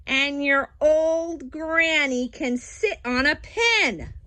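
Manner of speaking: a hint of a taunting pig, slow; pig yelling. Third pig taunts the wolf about his granny, mildly mock-yelled. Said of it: "the third little pig yelled".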